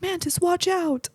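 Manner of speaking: high, slow mock warning; playful late-warning Drax impression; Drax quote. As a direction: imitate Drax calling out late, pitched high. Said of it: "Drax goes".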